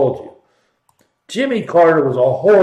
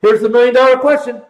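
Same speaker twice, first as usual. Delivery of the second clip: dramatic reveal; 5 semitones higher, faster than usual. Shown as a demonstration. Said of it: "Drum roll".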